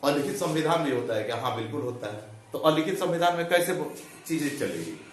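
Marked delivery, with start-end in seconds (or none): 0.0-1.4 imagined student doubt. Retold or imitated. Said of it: "आप भी सोच रहे होंगे कि".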